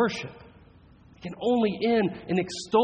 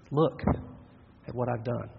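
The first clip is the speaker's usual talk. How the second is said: despairing; 5 semitones lower, 5 dB quieter than usual. Retold or imitated. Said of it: "Or we come in despair".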